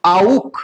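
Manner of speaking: आउक as "ow" closing on a back kh; आउक, gliding au into kh; German auch. Shown as a demonstration. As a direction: model आउक as one distinct word. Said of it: "क्या होगा".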